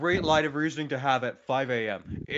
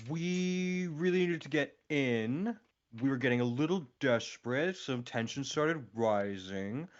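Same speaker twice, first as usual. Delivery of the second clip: talking weirdly. Real, not acted. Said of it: "I'm talking really weirdly right now".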